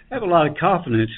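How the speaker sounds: after crying. Real, not acted. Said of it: "I got a little teary-eyed here".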